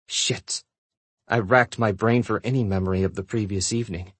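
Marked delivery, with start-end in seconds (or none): 0.1-0.6 whispered curse. Acted. Caught out, swears under breath.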